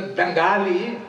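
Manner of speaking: Canadian way of saying Bengali. Retold or imitated. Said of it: "ইয়া, এইভাবে করলেন।".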